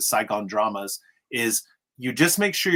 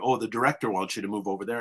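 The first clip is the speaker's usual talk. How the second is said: put-on American accent; 2 semitones lower, 4 dB quieter, faster than usual. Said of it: "an American accent".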